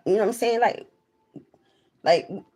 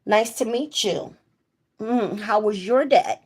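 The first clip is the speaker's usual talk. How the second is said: careful, accent-free demo greeting, slightly raised; straight English, no accent; 4 semitones higher than usual. Shown as a demonstration. Proving to people she has no accent, straight English. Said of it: "We talk straight English".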